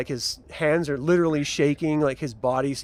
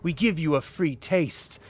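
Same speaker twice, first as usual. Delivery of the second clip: gloating gang villain. Acted. Villain's speech.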